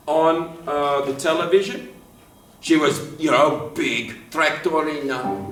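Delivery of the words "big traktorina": Russian woman stereotype. Acted. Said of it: "if they had a Russian woman".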